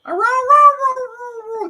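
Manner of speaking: very high mock hound howling; loud, high-pitched "row-row" howls; cartoon hound howl. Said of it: "Remember the, the Fox and the Hound as kids when he goes".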